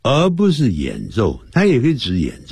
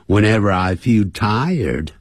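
ordinary talk

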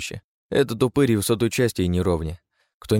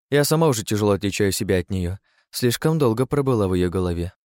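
higher, playful woman's voice; sly female keeper; 5 semitones higher than usual. Acted. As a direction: tease the council. Third keeper voice.

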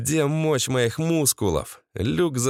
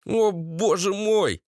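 high, drawn-out meek bleat; bleating Valera; 7 semitones higher, slower than usual. A narrator's reading. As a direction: bleat slowly, pitched up. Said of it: "блеял Валера". (блеющий испуганный Валера)

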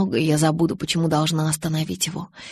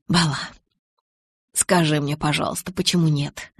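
usual speaking voice

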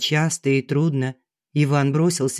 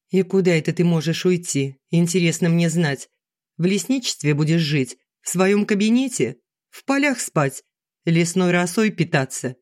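mocking; 3 semitones higher than usual. Wife mocking husband's plan.

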